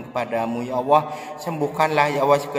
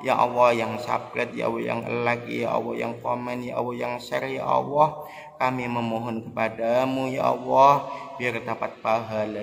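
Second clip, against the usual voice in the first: fervent prayer; 2 semitones higher than usual. Acted. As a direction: call out to God with full fervour. Leads viewers in fervent prayer.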